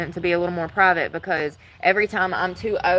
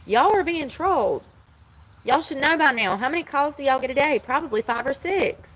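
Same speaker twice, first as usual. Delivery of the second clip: exasperated retort; 5 semitones higher than usual. Retold or imitated. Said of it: "and I'm like".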